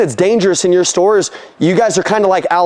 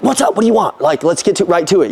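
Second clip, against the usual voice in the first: curt. Retold or imitated. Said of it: "used to answering the phone and being like".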